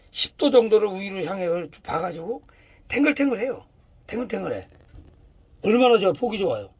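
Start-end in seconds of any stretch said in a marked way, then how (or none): 2.9-3.6 탱글탱글해요 said higher and bright, lifting the pitch on the word; lively emphasis. Shown as a demonstration. Showing students a plump healthy leaf, with a raised lively voice. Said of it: "repeats the word, first take raised". 4.1-4.7 soft echo. Shown as a demonstration. Echoing the word to students, said softly under the breath. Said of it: "repeats the word, second take soft".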